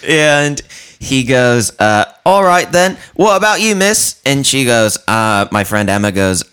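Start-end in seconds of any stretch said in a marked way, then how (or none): 2.2-4.2 much higher, earnest awkward stranger; high, polite awkward stranger impression; high mimic voice. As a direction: pipe it up like a socially awkward fan. Mimicking the odd guy.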